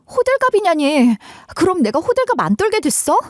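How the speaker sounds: high-pitched, offended comeback; indignant retort. Acted. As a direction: throw it back in indignant disbelief. Girlfriend retorts to dismissive boyfriend.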